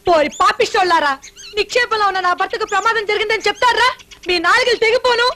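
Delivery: scolding that climbs in pitch; indignant cursing. Acted. Wife cursing men who lied about husband, indignant. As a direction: curse them with rising outrage.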